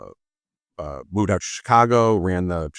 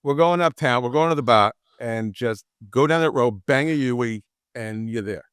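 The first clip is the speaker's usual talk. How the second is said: put-on Boston accent. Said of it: "it's more like".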